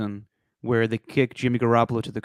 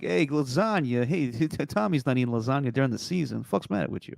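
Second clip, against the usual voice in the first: imitating an Italian-American video guy; New York Italian accent; 5 dB quieter than usual. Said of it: "I just like where he was like".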